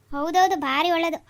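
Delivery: slow, drawn-out mock agreement; sarcastic agreement. Husband mocking his wife's saree logic, slow sarcastic yes. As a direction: agree so she hears you don't mean it.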